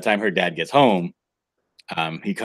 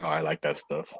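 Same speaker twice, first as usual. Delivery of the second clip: soft whispered aside; whispering; 4 semitones lower, 10 dB quieter than usual. Real, not acted. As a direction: breathe it out without voice. Murmured aside while eating.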